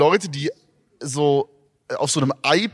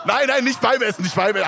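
laughing; 6 semitones higher than usual. Real, not acted. Laughing denial.

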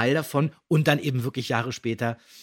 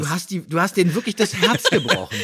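laughing; 6 semitones higher, 6 dB louder than usual. Real, not acted. Teasing guest, laughing.

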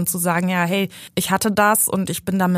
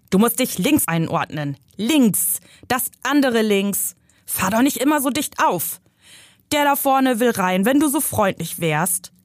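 higher, bossy backseat driver; nagging uncle; 4 semitones higher than usual. Acted. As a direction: needle her from the passenger seat.

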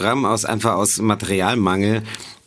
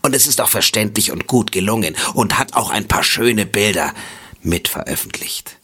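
solemn reading voice. Acted. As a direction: read it out like grave scripture. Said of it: "mit einer getragenen Stimme vor".

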